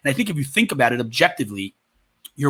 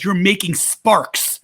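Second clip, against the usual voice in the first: lightly voiced comedian marvelling; mock amazement; 6 semitones higher than usual. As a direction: play up the wonder of it. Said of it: "He says".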